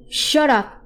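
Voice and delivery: sudden high shout; sharp snap. Retold or imitated. Dad snaps at child.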